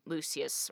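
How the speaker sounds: first Lucius as LOO-see-us; two pronunciations. Shown as a demonstration. Host offering one option, Lucius as LOO-see-us. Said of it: "however you wanna say it".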